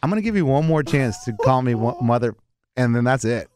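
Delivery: low, measured warning; retold threat. Quoting a stranger warning him about name-calling, low threat. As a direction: lay down a final warning.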